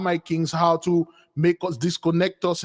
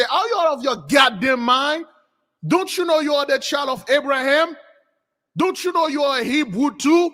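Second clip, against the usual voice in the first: higher, incredulous rebuke; acted scolding; 6 semitones higher than usual. Balaam setting Zippo straight, mildly scolding. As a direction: scold him as if he should know better.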